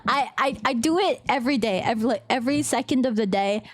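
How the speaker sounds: low, deep boasting. Shown as a demonstration. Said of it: "this is my deep vo".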